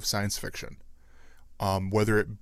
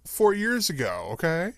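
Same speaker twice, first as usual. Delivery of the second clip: defensive; 10 semitones higher, 3 dB louder than usual. Real, not acted. Defending himself against teasing.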